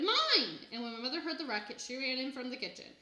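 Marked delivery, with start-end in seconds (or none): 0.0-0.6 high, loud shout of Mine!; toddler's furious counter-yell. A narrator's reading. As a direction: shout it back even higher. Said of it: "Fudge shouted".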